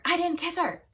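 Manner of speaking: high, loud mock yell; retold yell. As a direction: imitate him yelling a denial. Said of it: "He yells to her".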